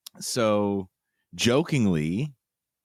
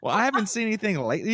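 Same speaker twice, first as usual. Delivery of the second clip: hesitant evasive host. Retold or imitated. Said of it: "she was like".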